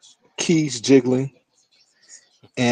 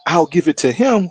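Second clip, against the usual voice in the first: mock defiance; 9 semitones higher, 4 dB louder than usual. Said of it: "He's like".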